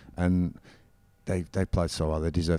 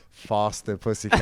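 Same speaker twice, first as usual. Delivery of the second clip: Southern accent. Shown as a demonstration. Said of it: "you say it in a really nice Southern accent".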